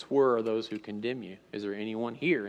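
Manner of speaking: soft, tender retold question; hushed, caring voice of Jesus, lightly acted; compassionate. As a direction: ask her gently, voice dropped. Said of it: "compassionate moment, looks at this woman and says".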